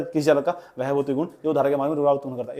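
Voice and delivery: gabbled fast, like a pupil reciting by heart; rattled off by rote. Retold or imitated. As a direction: rush through the definition like a rote-learning student. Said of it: "ऐसे तो पढ़ते थे".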